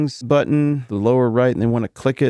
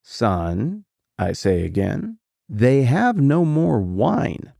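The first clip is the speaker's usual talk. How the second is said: slow, emphatic repeated announcement; exasperated mother repeating herself, slowly; pointed repeat; 2 semitones higher, much slower than usual. Shown as a demonstration. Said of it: "one way to read it".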